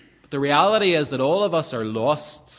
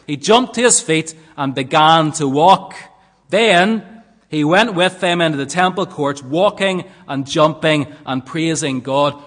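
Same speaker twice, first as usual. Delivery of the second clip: louder emphatic reading; 6 dB louder than usual. Shown as a demonstration. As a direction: proclaim the verse loudly. Verse read again with force.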